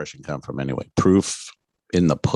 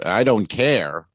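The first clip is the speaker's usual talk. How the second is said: lightly imitated marshal, slow; a hint of the unbothered marshal, drawn out; slow Tommy Lee Jones; much slower than usual. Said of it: "is great".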